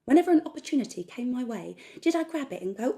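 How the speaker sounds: loud, fired-up self pep talk; defiant rant. Acted. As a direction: build up into a loud, furious resolve. Defiant rant against hesitation.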